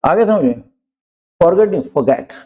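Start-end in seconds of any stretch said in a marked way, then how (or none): 1.4-2.3 फॉरगेट with the r after the vowel left silent; right way, silent r. Shown as a demonstration. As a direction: say फॉरगेट dropping the r, teacher correcting. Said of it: "आर silent रहता है".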